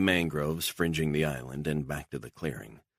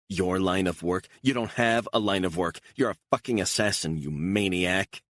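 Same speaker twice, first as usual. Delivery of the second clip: higher and louder, sneering; scornful anger; 4 semitones higher, 3 dB louder than usual. Acted. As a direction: spit the words at him. Beatrice mocks Stone's job.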